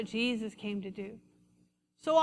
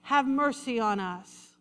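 reading the blind men's shouting; 8 dB louder than usual. Acted. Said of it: "they began shouting".

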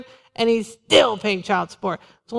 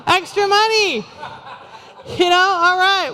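laughing; 6 semitones higher than usual. Real, not acted. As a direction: chuckle it out, amused at the idea. Laughing at imagined offering-skipper.

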